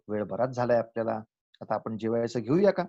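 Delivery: calm, courteous invitation; polite suggestion. Shown as a demonstration. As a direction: suggest it gently, without pressing. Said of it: "अशा तऱ्हेचं नाही का बोलता येणार?".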